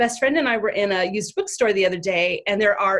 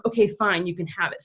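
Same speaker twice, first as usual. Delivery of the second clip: giving in. Retold or imitated. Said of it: "giving in".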